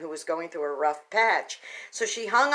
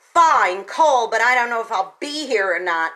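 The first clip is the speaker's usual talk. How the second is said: ugly cold reply; 5 dB louder than usual. Retold or imitated. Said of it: "she just was ugly".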